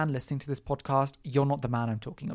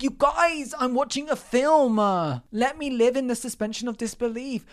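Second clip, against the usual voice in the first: irritated rant; 5 semitones higher than usual. Retold or imitated. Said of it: "piss me off because I was like".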